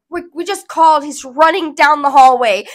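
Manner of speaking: retold shout back across the room; urgent shouted reply. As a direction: answer loudly, as harried staff would. Staff answering the screaming doctor.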